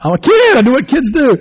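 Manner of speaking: put-on very high, loud kid voice; proud carefree child; little boy cheekily answering his dad; cheeky kid. Boy's reply in movie.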